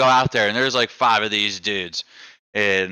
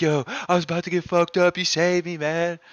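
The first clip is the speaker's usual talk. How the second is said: pumped buddy; 7 semitones higher than usual. Retold or imitated. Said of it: "He was like".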